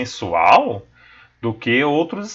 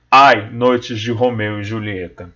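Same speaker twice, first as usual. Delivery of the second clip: poem recital; 3 semitones lower than usual. Acted. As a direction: recite the sonnet with feeling. Teacher reads the sonnet aloud.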